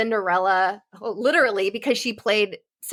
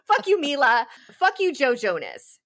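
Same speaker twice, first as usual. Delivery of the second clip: higher-pitched string of curses; worked up; 5 semitones higher than usual. Real, not acted. Host calling out celebrities one by one, worked up. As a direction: curse each name in turn, pitched up. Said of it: "obviously getting worked up".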